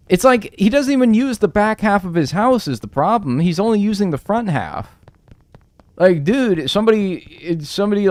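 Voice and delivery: high, loud, amazed at the halved house; can't believe what he's seeing; excited disbelief. Real, not acted. Gamer telling friends about a neighbor's odd house, excited disbelief.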